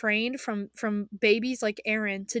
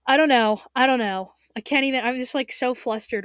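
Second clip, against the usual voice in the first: loud, flustered outburst; 3 semitones higher, 6 dB louder than usual. Real, not acted. Vlogger overwhelmed talking about the show's ending, loud flustered. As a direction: blurt it out, overwhelmed by feelings.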